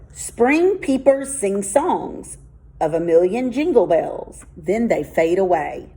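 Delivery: slow, measured poem recital; poem reading. Shown as a demonstration. Teacher reading a haiku to the class, slow and savoring. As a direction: read it like a little poem, savoring each image.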